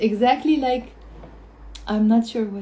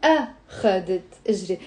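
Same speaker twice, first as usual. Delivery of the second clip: أخذت إجري with the opening أ of أخذت set apart; weight on the A of أخذت; stress on first syllable; 3 semitones lower, faster than usual. Shown as a demonstration. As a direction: say أخذت as A... kha-det, then إجري. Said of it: "the first one was on the أ".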